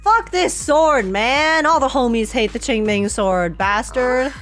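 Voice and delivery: ordinary talk, nothing marked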